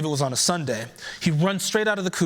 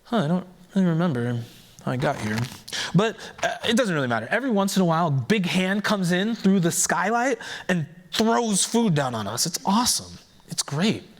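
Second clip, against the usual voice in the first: dazed rooster; 3 semitones higher than usual. Acted. Dazed rooster rambling happily.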